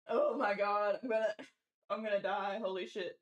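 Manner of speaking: gasping out words between laughs; so helpless with laughter the words barely come out. Real, not acted. Streamer dying laughing at chat's pun list, words wheezed through laughter. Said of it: "I never thought you could die from laughter".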